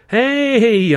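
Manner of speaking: high, loud shout of alarm; a sudden high yell; sharp warning shout. Acted. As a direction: bark it to make him freeze. Narrator warns captive on canal.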